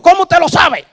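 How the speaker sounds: high, loud astonished cry; man stunned that he's found out; startled question. Retold or imitated. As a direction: blurt it out in shock.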